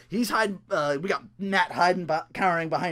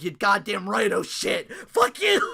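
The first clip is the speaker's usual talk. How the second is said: mock yell; 4 semitones higher, 5 dB louder than usual. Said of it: "he's like".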